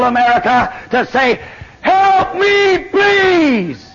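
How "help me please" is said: pleading cry. Acted. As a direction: call out for help as if desperate. Preacher voicing a cry for help.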